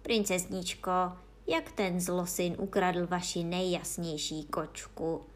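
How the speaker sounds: ordinary delivery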